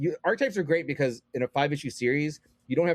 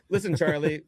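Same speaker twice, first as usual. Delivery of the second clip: higher-pitched, casual aside with a laugh; character dropping the act; 5 semitones higher than usual. Pretend. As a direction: pretend to break character and talk normally. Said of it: "does he stop and talk normal".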